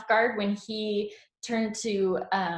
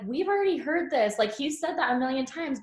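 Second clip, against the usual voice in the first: bored complaint; 5 semitones higher than usual. Retold or imitated. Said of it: "the Yang Gang was like".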